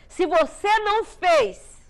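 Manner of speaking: high, loud, slow, each word weighed; a father's slow, forceful warning to his daughter; insistent warning. Retold or imitated. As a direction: drive the point home like a stern father. Father lecturing daughter, retold.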